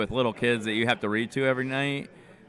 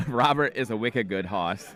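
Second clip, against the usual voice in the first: slow, lightly put-on Boston accent; mock a Boston mom reading. Imitating wife reading the kids' book in a Boston accent. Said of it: "reading it in a Boston accent".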